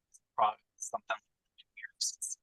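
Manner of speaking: bad connection dropping words; cutting out. Real, not acted. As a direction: voice breaking up on the line. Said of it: "Brian, you're cutting out a lot".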